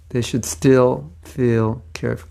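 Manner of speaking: slow, separated "should still feel cared"; slowed tongue-twister attempt; careful enunciation. Shown as a demonstration. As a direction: pick through "still feel cared" word by word. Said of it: "tongue twister".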